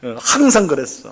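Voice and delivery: high indignant snap back; offended partner snapping back in anger; angry retort. Retold or imitated. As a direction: flare up defensively. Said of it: "버럭 화가 나요".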